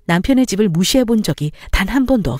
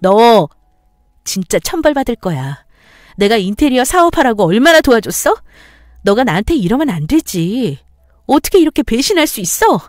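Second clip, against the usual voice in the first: heated quarrel; 2 semitones higher, 4 dB louder than usual. Acted. Heated quarrel between spouses.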